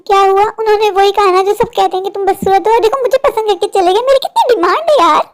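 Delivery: high-pitched, showy boasting; gloating. Acted. Sister bragging that the suitor chose her, gloating.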